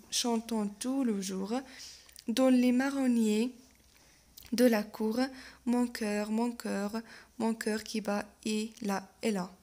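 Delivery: slow verse with measured pauses; poem recitation. Acted. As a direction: recite slowly, pausing between phrases. Reads poem aloud.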